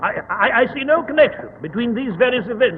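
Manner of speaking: bluff, baffled Victorian doctor; puzzled old soldier, thinking aloud; Watson. Acted. Watson as radio character.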